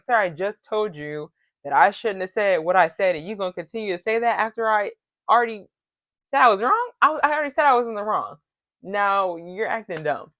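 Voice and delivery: mildly indignant, pitch climbing mid-rant; annoyed. Retold or imitated. Girlfriend who already said she was wrong, annoyed retort. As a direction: argue back, exasperated at being ignored. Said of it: "to be a little pissy and annoyed".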